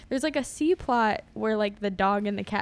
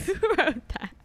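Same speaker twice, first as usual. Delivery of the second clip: higher, incredulous who wrote that; mock disbelief; 7 semitones higher than usual. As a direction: repeat it with mocking disbelief. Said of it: "I was like".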